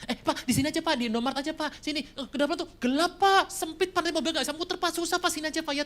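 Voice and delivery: high, rushed pleading excuses; mock anxious church member; nervous excuses. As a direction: talk him out of driving you home. Member avoids being driven home.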